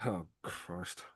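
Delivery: strained breathy wince; hurt by the heat; pained gasp. Real, not acted. Eating ghost pepper sauce.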